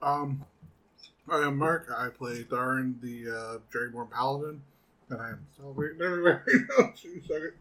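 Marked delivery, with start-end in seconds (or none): 0.0-4.6 talking through a mouthful of candy; words round a mouthful of candy; eating sour candy. Real, not acted. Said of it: "mouthful of sour candy". 5.1-6.9 eating sour candy. Real, not acted. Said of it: "I'm just kinda drooling".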